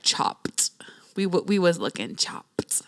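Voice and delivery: hushed, breathy aside; whispered. Real, not acted. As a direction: drop to a whisper on the slang. Describing looking exhausted.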